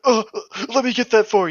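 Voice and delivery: over-eager helper diving in; gallant offer. Acted. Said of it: "Trips and falls into the puddle".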